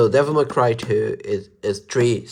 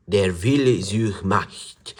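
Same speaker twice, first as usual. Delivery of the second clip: slow, careful clumsy German accent; terrible German accent; slower than usual. Shown as a demonstration. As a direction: read the German title in a bad German accent. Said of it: "Sorry for my terrible German".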